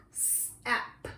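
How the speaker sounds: sep with a long s, then the ending; sounded out. Shown as a demonstration. Teacher showing how to sound out a chunk, sep with a drawn-out s. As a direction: stretch the s of sep before finishing the chunk. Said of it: "sound out each letter".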